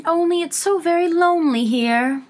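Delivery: high, lonely little Alice voice; melancholy. A narrator's reading. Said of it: "Alice said in a melancholy voice".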